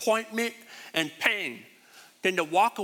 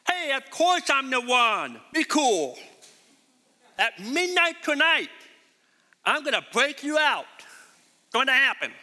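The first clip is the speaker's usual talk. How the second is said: higher, slowed, casual promise in a put-on voice; mock breezy Jesus; 4 semitones higher than usual. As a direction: play a too-cool rescuer, lightly mocking. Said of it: "Jesus didn't say".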